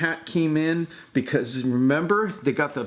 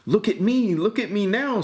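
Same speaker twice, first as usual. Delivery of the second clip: showing off cat; 5 semitones higher than usual. A narrator's reading.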